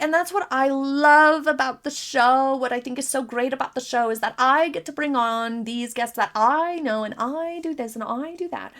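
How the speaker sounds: a hint of a gushing host, all about me; mocking Meghan. Commentator mimics Meghan gushing about her own show, mild mock. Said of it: "circled it back to herself of like".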